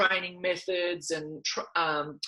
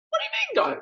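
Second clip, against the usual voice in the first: puzzled; faster than usual. Retold or imitated. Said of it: "And I went".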